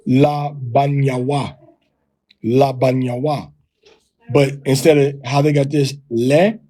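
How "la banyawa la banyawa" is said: "la banyawa" with flat a sounds. Shown as a demonstration. Teacher showing the One West reading. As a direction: say "la banyawa" twice, steady. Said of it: "we're gonna say".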